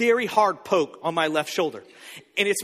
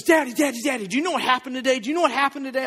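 put-on fast, higher, eager child's news; excited daughter; 4 semitones higher, faster than usual. Daughter bursting to tell dad her news, fast and high. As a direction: bubble over like a kid after school. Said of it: "she was all excited".

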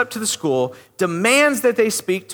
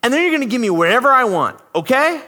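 higher, pushy mock demand; entitled attitude; 5 semitones higher than usual. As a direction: talk down to a service worker. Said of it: "this entitled attitude of".

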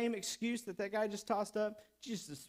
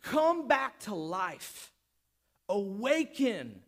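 slow, drawn-out, forceful call; slow commanding cry; yelled command; 4 dB louder, much slower than usual. Acted. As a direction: stretch each word into a summons. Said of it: "when Jesus yells at the man".

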